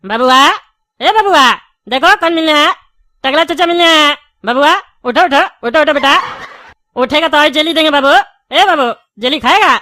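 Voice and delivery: put-on coaxing a sleeping child awake; playful, insistent wake-up calls; calling to wake. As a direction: call out pet names to rouse him. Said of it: "इतना जोर से बोला".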